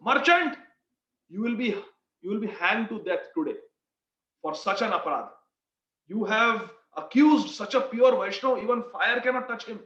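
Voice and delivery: mock royal anger passing sentence; angry king. King condemning the merchant for accusing a devotee, angry. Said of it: "He angrily looks at the merchant".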